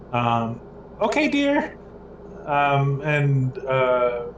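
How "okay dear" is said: high, sweet call from the kitchen; a bright falsetto reply from offstage; high wife voice. Acted. Wife answering her husband from the kitchen in a high voice. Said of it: "you hear from, like, the kitchen".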